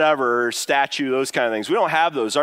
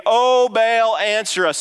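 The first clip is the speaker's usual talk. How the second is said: drawn-out, higher-pitched mock plea; begging; 5 semitones higher, 3 dB louder than usual. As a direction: call out slowly, begging a god to answer. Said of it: "begging Baal to answer them".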